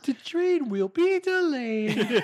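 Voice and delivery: mumbled subway intercom. Pretend. Subway announcement parody.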